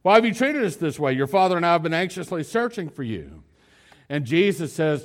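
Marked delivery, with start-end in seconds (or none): 0.0-3.4 higher and louder, a distraught reproach from a mother; upset mother. Retold or imitated. Mary confronting young Jesus after the search, upset reproach. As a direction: reproach him, still shaken from the search. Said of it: "mom's pretty upset here".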